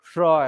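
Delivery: श as a retroflex "sh"; low-pitched demo of retroflex श; retroflex sibilant. Shown as a demonstration. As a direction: curl the tongue up for श. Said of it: "षटकोण वाले को ना श बोलो".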